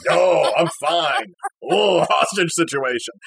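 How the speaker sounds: slow, put-on breezy reassurance; forced cheerful politeness. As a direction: brush off the help, slowly and awkwardly. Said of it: "And I'm like".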